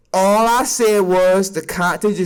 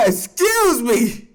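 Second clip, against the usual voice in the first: laughing apology; much slower than usual. Real, not acted.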